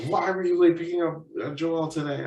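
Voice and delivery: high-pitched imitation of a parent demanding answers; mock parental grilling; questioning parent. Parent questioning him, retold.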